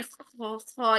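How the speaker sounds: خا with a light scrape at the back of the throat; light throaty kha demo; scratchy kha. Shown as a demonstration. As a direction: rasp the kha gently. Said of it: "یہیں سے خا نکلے گا".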